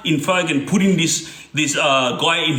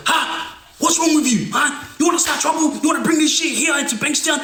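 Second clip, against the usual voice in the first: put-on furious older guy yelling at the younger men; retold yelling; 9 semitones higher than usual. Older guy berating the young crew, hammed-up angry shout. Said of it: "he starts going off".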